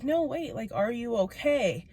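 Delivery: softly imitating a worried coworker; genuinely concerned. Coworker with hands on my shoulders, gently concerned. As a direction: drop the volume and gently check in. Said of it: "he seemed so genuinely concerned".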